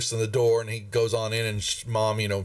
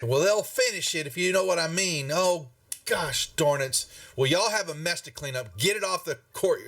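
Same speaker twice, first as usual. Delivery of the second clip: higher, exasperated grumbling; upset town master; 5 semitones higher than usual. Acted. Town master orders adventurers to clean up, exasperated. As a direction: fuss at them over the mess. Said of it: "he was, he's upset".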